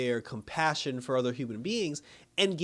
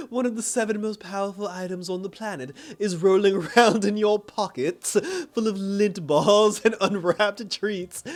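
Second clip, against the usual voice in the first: laughing mock taunt; 6 semitones higher, 7 dB louder than usual. Villain taunting man at gym.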